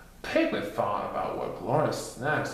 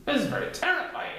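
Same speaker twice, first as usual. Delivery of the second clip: chuckling; 14 semitones higher, faster than usual. Acted. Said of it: "Titter chuckled delightedly".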